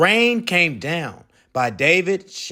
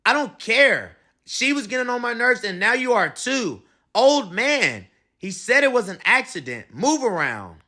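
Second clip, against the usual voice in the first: angry; 5 semitones higher than usual. Acted. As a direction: snap at the old man. Three arguing.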